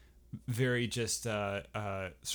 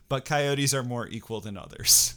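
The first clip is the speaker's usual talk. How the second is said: laughing whisper; 6 dB louder than usual. Real, not acted. Jokey Orwell twist, laughed aside.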